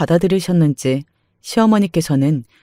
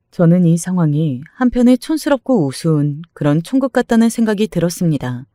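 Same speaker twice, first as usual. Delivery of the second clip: plain reading voice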